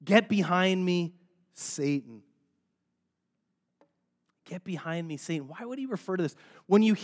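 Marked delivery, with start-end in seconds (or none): 0.0-2.2 firm, measured rebuke, dropping on the last word; acted stern dismissal with a pause before the name; harsh rebuke. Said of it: "It seems harsh".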